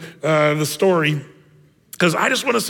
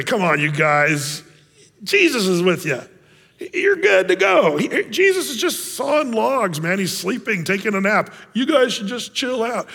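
know-it-all; 4 semitones higher than usual. Retold or imitated. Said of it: "act like know-it-alls".

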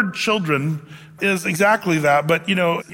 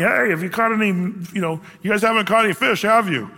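calling out across water; 4 semitones higher than usual. Retold or imitated. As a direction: shout it to fishermen far out on the lake.

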